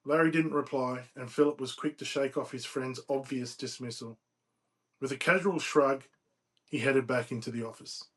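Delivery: measured, emphatic read-aloud narration; storyteller reading from a novel; story narration. A narrator's reading. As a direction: read the tale out phrase by phrase. Reads novel excerpt aloud.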